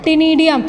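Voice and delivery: टीनिडियम beginning with a plain T sound; silent C. Shown as a demonstration. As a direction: say टीनिडियम with the initial C silent, starting on T. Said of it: "सी इसमें silent होता है". (टीनिडियम में शुरू का सी silent)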